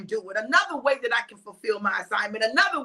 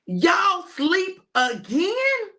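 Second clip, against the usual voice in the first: disbelieving Jesus; 5 semitones higher, much slower than usual. Acted. Jesus finds them asleep again.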